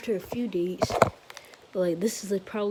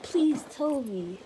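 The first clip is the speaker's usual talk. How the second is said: pleading; 6 semitones higher, slower than usual. Retold or imitated. Momo begging to hear secret.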